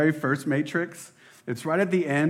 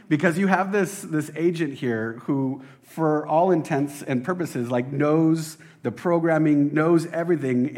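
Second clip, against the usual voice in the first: louder, eager and keyed up; excited; 2 semitones higher, 4 dB louder than usual. Real, not acted. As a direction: build the scene with enthusiasm. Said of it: "I'm getting a little excited".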